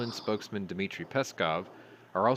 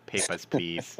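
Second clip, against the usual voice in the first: clipped officious checkpoint guard voice; lightly hammed checkpoint officer; mock border guard; slower than usual. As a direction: bark it like a stern border guard.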